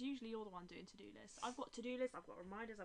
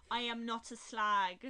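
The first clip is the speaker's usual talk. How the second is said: slow, emphatic, louder denial; insistent denial; 11 dB louder, slower than usual. Real, not acted. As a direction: protest too much. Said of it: "Who are you trying to convince there?".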